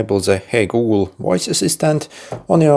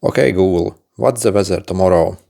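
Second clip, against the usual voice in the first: talking to voice assistant. Shown as a demonstration. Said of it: "You're going to need to say a few phrases".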